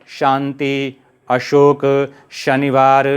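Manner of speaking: शांति, अशोक, शनिवार slowly with clear palatal sha; palatal sha examples. Shown as a demonstration. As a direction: draw out each word, tongue at palate for श. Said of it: "आपका श समझ में आ गया". (श वाले शब्दों का धीमा तालव्य उच्चारण)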